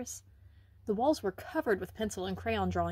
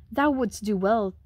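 scolding; 5 dB louder than usual. Acted. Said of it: "she scolded".

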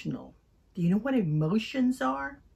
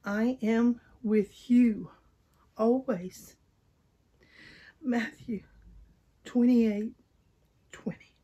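sad. Shown as a demonstration. Teacher reciting the verse in a sad voice. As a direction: say it slowly, sadly. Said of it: "say our memory verse, sad?".

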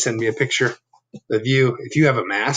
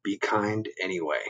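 gentle reminder; 3 semitones lower, 8 dB quieter than usual. Shown as a demonstration. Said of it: "what do we say?".

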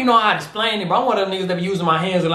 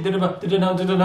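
flow imitation; much faster than usual. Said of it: "like he skipping".

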